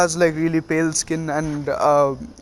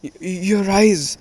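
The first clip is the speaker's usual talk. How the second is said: higher, stuttering mock fright; scared stammer; 4 semitones higher than usual. Frightened Jiraiya points out Naruto's eyes, stammering in mock fear. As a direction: stumble over the first word, lightly acting startled. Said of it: "why are you so scared".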